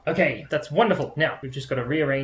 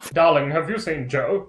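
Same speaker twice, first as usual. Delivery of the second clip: her own comic voice; 2 semitones higher, 6 dB louder than usual. Acted. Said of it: "that's how I talk".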